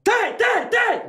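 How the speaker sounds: high, shouted tem tem tem; hammed-up excited shout. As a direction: burst out like you can't hold it in. Retelling his own outburst.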